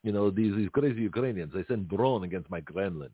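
put-on a light Russian accent as Putin, barely shifted; Putin impression. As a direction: play Putin briefing Greg, a mild Russian accent. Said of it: "Putin calls me and says".

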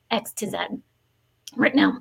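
hoarse, fading voice; words scraped out on a tired voice; losing voice. Real, not acted. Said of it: "losing my voice".

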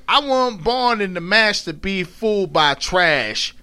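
lightly acted Southern dialect; mad mother's dialect. Quoting the mad mother, in Southern dialect. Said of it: "when her mom gets mad, she says".

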